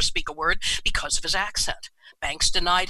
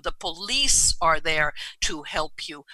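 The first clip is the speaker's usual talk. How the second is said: reassuring mother; slower than usual. Retold or imitated. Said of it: "She said".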